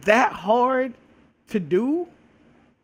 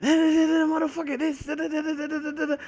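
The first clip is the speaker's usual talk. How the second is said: mock angry rant; 7 semitones higher than usual. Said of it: "instead of".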